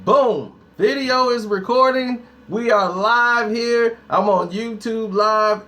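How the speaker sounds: lightly hyped live-show opening; video presenter intro. Real, not acted. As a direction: announce the recording to the viewers. Starts recording, presents to viewers.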